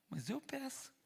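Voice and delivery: whispered confession. Retold or imitated. Admitting to God in a whisper. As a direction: breathe it out as a secret.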